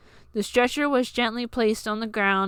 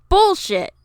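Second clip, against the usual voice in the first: very loud angry yell; angry shout; 11 semitones higher, 8 dB louder than usual. A narrator's reading. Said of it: "continued to shout".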